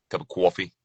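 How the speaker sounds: "coffee" said as "cwaw-fee" in New York style; New York accent. Shown as a demonstration. Narrator showing listeners New York words, New York accent on "coffee". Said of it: "always come to mind when it comes to New York".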